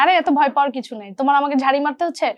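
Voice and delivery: mildly urging, imitating a supportive senior actor; retelling encouragement. Senior actor telling junior to scold him, retold encouragement. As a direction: talk a junior out of their fear. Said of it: "আমার ভয়টা ভেঙে দিচ্ছে".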